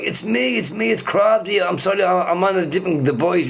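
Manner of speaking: pleading explanation. Retold or imitated. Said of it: "I'm like".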